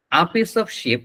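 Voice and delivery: "sheep" said short, sounding like ship; no vowel stretch. Shown as a demonstration. Teacher repeats the meat shop mistake, no vowel stretch in "sheep". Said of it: "কোনো টান দেন".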